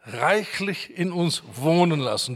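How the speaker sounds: weight on "wohnen" in the phrase; stress on WOHNEN. Shown as a demonstration. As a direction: lean on the word "wohnen". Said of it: "Die Betonung liegt auf wohnen".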